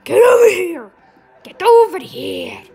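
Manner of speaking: high, very loud order; demanding yell. Pretend. Player to escaping victims, loud demanding yell. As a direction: bellow after someone getting away.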